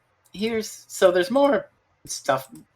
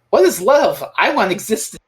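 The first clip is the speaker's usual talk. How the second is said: higher, lightly acted quote; imitated eternal being; 4 semitones higher than usual. Host quotes the eternal answering Tegan, imitated eternal being. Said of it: "And he's like".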